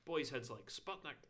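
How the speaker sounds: slow, loud, high Scottish rant; Mike Myers' dad. Acted. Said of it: "it's the best Scottish accent".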